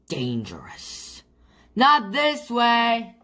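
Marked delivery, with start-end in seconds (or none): 1.8-3.2 high, urgent call. A narrator's reading. Chip warns Gran on the bridge, high call. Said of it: "called Chip".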